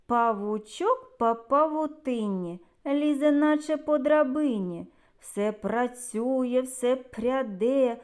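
put-on measured children's verse recitation; expressive nursery-poem reading; poem recital. Shown as a demonstration. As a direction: recite the rhyme for small listeners, word by word. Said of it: "А зараз уважно послухайте вірш".

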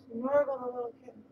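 put-on bright baby-talk to a kitten; cooing pet talk. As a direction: sing it up to the cat.

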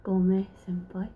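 put-on whispered Japanese apology in a learner accent; slow, whispered Japanese apology. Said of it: "Sorry if my Japanese is a little bit off".

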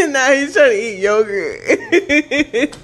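slow words squeezed through laughter; laughing. Real, not acted. Filming friend who grabs yogurt: slow laughing words. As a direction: talk while cracking up, slowly.

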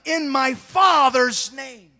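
slow, loud proclamation; slow booming declaration; Jesus proclaiming. Retold or imitated. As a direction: declare it slowly and with force. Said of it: "He's walking and he says".

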